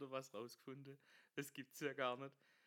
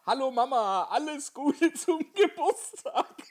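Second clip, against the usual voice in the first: much higher, loud, slow squeak; high squeaky greeting; 12 semitones higher, 13 dB louder, slower than usual. Retold or imitated. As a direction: squeak it like a tiny voice. Pointe, hohe Stimme. (hoch und piepsig)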